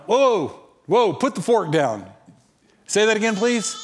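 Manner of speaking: high, startled "hold on"; acted-out double take; stunned reaction. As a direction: stop them short in mock astonishment.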